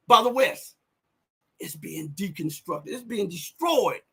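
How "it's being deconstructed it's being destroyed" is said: hushed and grave. Real, not acted. Grim verdict on Western policy.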